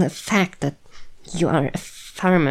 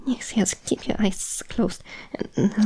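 soothing whisper; 4 semitones higher, 3 dB quieter than usual. Acted. Calming the human while coiling.

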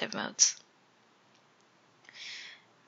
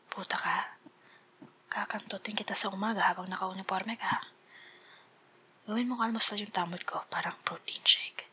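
sexy dirty talk; 2 semitones lower than usual. Pretend. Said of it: "really sexy fucking line".

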